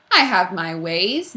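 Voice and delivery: slow, sly and knowing; sly principal teasing; slyly. Acted. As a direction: savor the secret slowly. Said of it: "said slyly".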